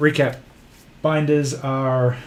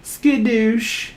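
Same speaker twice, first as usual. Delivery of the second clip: excited exclamation; 10 semitones higher than usual. Acted. Playful cheer at the stream.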